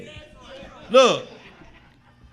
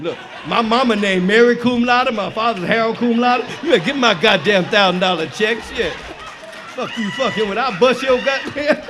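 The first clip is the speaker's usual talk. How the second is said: mock angry demand; 6 dB louder than usual. Retold demand for his check.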